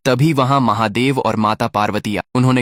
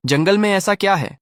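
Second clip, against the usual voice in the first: smiling question; 8 semitones higher than usual. A narrator's reading. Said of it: "मुस्कुराकर पूछा".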